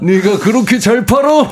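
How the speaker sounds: lightly mimicked senior's challenge, pitched high; mock indignation with laughter in it; 박명수. Older comedian challenging a junior, jokingly indignant. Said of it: "나갈 때 명수 형님 만나면".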